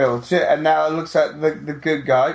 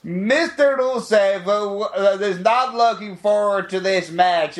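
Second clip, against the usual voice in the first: mock bad Russian accent, slow at the start; lightly hammed-up fake Russian voice; 3 semitones higher than usual. Podcaster mocking a wrestling manager's terrible Russian accent. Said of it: "It was so terrible".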